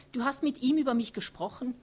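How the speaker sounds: laut und empört fragend, deutlich höher; fährt ihn wütend an mit der Frage; aufgebracht. A narrator's reading. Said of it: "fragt Thea aufgebracht". (Thea stellt Otto empört und laut zur Rede)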